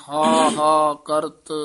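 ਹਾ ਹਾ said as two distinct, slow beats; separate syllables. Shown as a demonstration. Teacher shows the student ਹਾ ਹਾ said separately, slow. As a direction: split ਹਾ ਹਾ apart, each one clear. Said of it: "ਵੱਖਰਾ ਹੀ ਬੋਲਣਾ ਹੈ".

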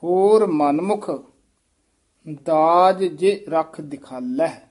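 ਹੋਰ ਮਨਮੁਖ, a clear break, then ਦਾਜ ਜੇ ਰਖ ਦਿਖਾਲਹਿ; pause after ਮਨਮੁਖ. Shown as a demonstration. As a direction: split the line after ਮਨਮੁਖ. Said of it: "teacher models the line". (ਮਨਮੁਖ ਤੋਂ ਬਾਅਦ ਰੁਕਣਾ)

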